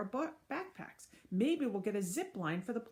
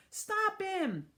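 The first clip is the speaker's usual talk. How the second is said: yelled; 12 semitones higher, 4 dB louder than usual. Acted. Crowd yells after mayor.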